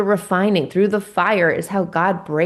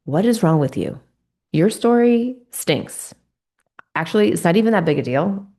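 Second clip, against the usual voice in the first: a mocking, sneering inner critic, partly higher and faster; wicked inner voice; 3 semitones higher than usual. Recalling her inner critic, a mild mock of the wicked voice. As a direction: sneer like the cruel voice inside your head. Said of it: "that wicked little voice saying".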